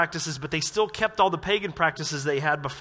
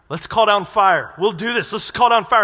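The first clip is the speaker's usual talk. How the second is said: mock eager disciples; 3 semitones higher, 9 dB louder than usual. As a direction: egg Jesus on, loudly. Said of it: "they're going".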